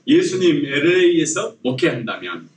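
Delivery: measured, evenly phrased title for repeating; lead for repetition. Shown as a demonstration. Preacher has congregation repeat the sermon title, measured lead. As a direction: say it out for everyone to repeat. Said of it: "따라서 한번 해볼까요?".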